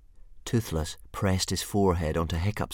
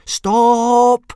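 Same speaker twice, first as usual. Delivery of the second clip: much higher, loud sharp yell; 14 dB louder than usual. Acted. Hiccup yelling at the dragon shredding the mattress, loud yell. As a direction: shout to stop the dragon. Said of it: "yelled Hiccup".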